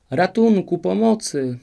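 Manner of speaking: loud, high cry for help. A narrator's reading. Old woman calling from the tower window, loud. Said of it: "wołała starowinka".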